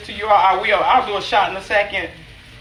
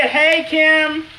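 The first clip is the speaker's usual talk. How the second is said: excited greeting; 9 semitones higher than usual. Real, not acted. Spotting cousin in chat.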